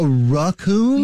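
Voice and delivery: questioning RACCOON as "ruh-KOON"; puzzled repeat of raccoon as ruh-KOON; soft raccoon. Retold or imitated. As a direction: echo raccoon with a soft "ruh" start, slowly. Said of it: "where it's more of a raccoon".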